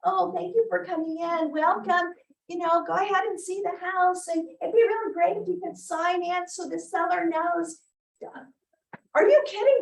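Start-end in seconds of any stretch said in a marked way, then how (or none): 0.0-7.8 meek, hesitant welcome, a touch higher; timid greeting. Shown as a demonstration. Agent greeting open-house visitors at the door, meek and timid. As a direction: hang back and greet them shyly. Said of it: "stand back and be really timid".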